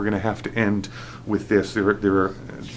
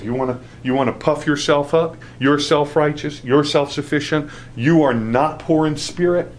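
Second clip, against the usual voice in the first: rebuke; 6 semitones higher than usual. Retold or imitated. Jesus rebuking the self-righteous.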